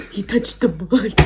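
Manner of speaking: slow, drawn-out movie quote; a hint of cartoon awe; Finding Nemo quote. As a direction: stretch it out like the cartoon line. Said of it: "from, like, Finding Nemo".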